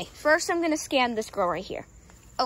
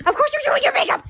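teasing; 12 semitones higher, 10 dB louder, faster than usual. Real, not acted. Teasing sister.

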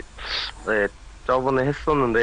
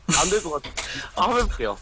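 Donald Duck voice; 3 semitones higher, faster than usual. Shown as a demonstration. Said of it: "그거 하면서 말할 수 있어요".

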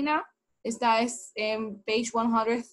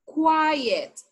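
raised model for repeating; 4 semitones higher, much slower than usual. Shown as a demonstration. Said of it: "Repita conmigo".

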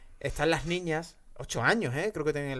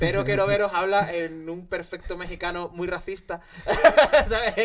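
laughing; 3 semitones higher, 5 dB louder than usual. Real, not acted. Laughing while describing dub.

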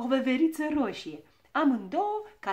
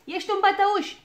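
high, loud, quicker jeer; repeated taunt; 10 semitones higher, 11 dB louder than usual. A narrator's reading. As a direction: shout the accusation in a little girl's high voice. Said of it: "repetă ea". (strigăt ascuțit, scurt, de tachinare)

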